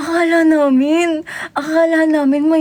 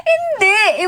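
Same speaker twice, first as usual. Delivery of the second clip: emphatic denial; 8 semitones higher than usual. Real, not acted. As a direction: shout no through laughter. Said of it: "reacting to comment". (malakas na pasigaw na pagtanggi)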